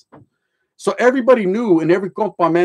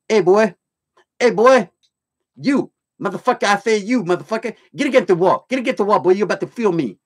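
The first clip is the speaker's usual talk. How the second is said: Major Payne voice; 3 semitones higher than usual. Retold or imitated. Retelling a prison guard ordering inmates, drill sergeant bark. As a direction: yell like a mean prison guard. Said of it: "That Major Payne voice".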